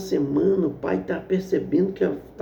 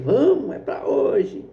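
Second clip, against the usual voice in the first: mocking taunt; 5 semitones higher, slower than usual. Foreman jeers at the sweating student, mocking. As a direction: taunt him from the chair. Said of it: "zombando dele".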